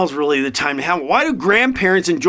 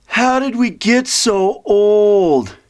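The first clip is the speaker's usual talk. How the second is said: mock lament; much slower than usual. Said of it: "he goes to my friend".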